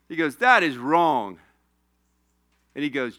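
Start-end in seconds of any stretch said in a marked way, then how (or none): 0.4-1.4 retold objection. Repeats teammate's retold objection.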